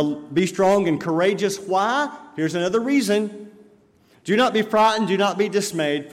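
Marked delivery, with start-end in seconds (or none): 0.0-1.6 forceful. Acted. Preacher quoting scripture forcefully. 4.2-6.1 preaching proclamation. Acted. Preacher proclaiming scripture command.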